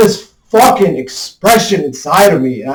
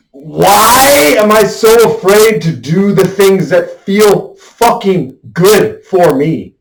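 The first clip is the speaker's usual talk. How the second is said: pleading, raised and loud, stretched out; venting real anger at himself; raw frustration; 4 semitones higher, 3 dB louder than usual. Real, not acted. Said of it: "this newfound level of fucking anger".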